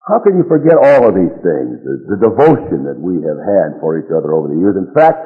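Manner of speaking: indignant pleading. Retold or imitated. Spurned friend reproaches the man refusing his loan, mildly indignant. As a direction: pile up the reproaches, aggrieved.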